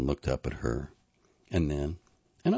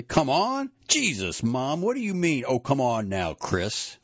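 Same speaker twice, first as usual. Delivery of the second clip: high, raised-voice outburst; loud angry disbelief; 9 semitones higher, 4 dB louder than usual. A narrator's reading. Son throwing his mother's words back, angrily loud. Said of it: "he said this loudly".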